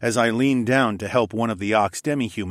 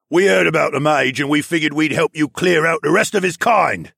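loud, raised, rowdy creature voice; roaring polar bear; 7 semitones higher, 7 dB louder than usual. A narrator's reading. Polar bear riling up the crowd, roaring. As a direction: roar it out to rally a mob. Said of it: "a polar bear demi-human roared".

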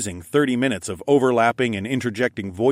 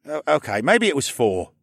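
put-on higher, embarrassed kid backing down; sheepish boy voice; 6 semitones higher, 3 dB louder than usual. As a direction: concede it like a caught kid. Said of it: "he conceded".

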